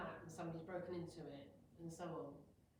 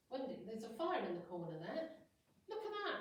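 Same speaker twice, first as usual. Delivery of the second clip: sudden alarm, pitch leaping up and louder on look at that; alarmed cry; 3 semitones higher, 4 dB louder than usual. Pretend. Mock alarm as a speaker imagines spotting a fire in the room. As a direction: raise the alarm about a fire.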